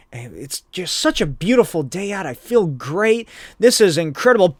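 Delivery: blissed-out hero, voice lifting; a touch of hammed-up joy; mock elation. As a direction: build happily toward a big finish. Hero exulting before being hit.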